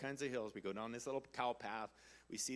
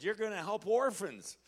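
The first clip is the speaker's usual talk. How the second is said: prophetic declaration; 6 semitones higher, 7 dB louder than usual. Retold or imitated. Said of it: "prophet prophesied over me and said".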